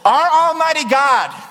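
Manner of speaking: words carried on a chuckle; laughing. Real, not acted. Preacher losing focus before his congregation, laughing. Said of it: "let me stay focused here".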